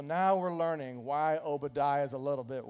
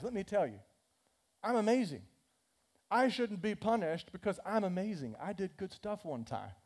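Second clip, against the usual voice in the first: mock bragging; 3 semitones higher than usual. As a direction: puff yourself up for Elijah. Boastful Obadiah brags louder.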